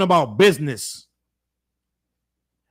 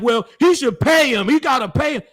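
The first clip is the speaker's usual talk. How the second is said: higher, insistent mock quote; mimicked insistence; 5 semitones higher than usual. Commentator imitating viewers who demand payment, high and insistent.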